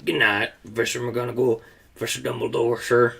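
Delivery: muffled, tearful giant voice. Acted. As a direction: speak through a muffled, teary voice. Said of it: "in a very muffled voice".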